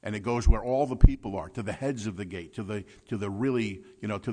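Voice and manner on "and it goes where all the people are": loud and quick, like a voice filling the streets; preacher raising his voice to show wisdom bellowing; booming voice. Shown as a demonstration. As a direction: boom it out to the whole crowd. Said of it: "it's got a big booming voice".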